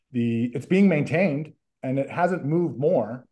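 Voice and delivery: roomy echo on the line. Real, not acted. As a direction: voice echoing in a big hall. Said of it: "I'm echoing".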